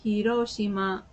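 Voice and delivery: Hiroshima in even syllables with a tapped r; Japanese pronunciation. Acted. Telling people where one is from, Hiroshima pronounced the Japanese way. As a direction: drop Hiroshima in Japanese style into English. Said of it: "So if I'm like".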